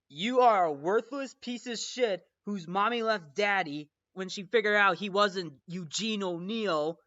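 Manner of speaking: acted-out scornful conductor; hurled insult. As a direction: throw the insult out forcefully. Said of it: "one of the insults".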